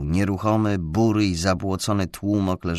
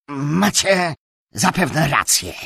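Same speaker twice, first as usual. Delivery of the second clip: conciliatory; 8 semitones higher, 6 dB louder, slower than usual. A narrator's reading. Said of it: "przyznał szlachcic pojednawczo".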